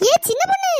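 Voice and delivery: a spirit summoning her name; shrill, high ghostly summons; eerie ghost call. Acted. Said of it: "திரும்பவும் கூப்பிடுதுடி".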